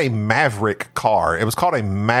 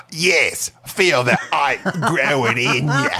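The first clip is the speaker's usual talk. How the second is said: bad Cockney accent. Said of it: "that real bad Cockney accent".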